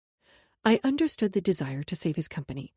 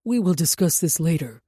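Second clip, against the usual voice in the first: louder, low, clipped anger; bit out; 3 semitones lower, 7 dB louder than usual. A narrator's reading. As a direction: bite off every word. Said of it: "Jackson bit out".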